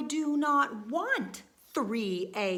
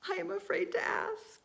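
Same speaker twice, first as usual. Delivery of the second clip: gasp, then fast and higher; nervous, hurried dread; gasping fear; 7 semitones higher, faster than usual. Acted. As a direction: blurt it out after a frightened gasp. Elephant fears an egg.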